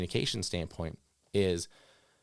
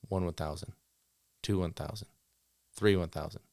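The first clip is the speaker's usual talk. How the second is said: counting seconds; 3 semitones lower, 3 dB quieter than usual. Shown as a demonstration. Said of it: "the dog should be corrected now".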